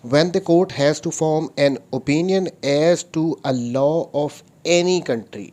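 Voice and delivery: slow, deliberate reading of the law; reading statute aloud. Shown as a demonstration. Lecturer reads the article to his students, slow and deliberate. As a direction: read every word out like a legal text.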